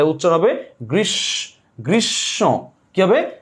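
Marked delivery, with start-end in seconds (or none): 1.8-2.6 "গ্রীষ্ম" with doubled sh and a nasal final o; nasalized ending. Shown as a demonstration. Teacher showing the chandrabindu sound, nasalized ending. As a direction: pull the end of "গ্রীষ্ম" through the nose. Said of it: "চন্দ্রবিন্দু হবে".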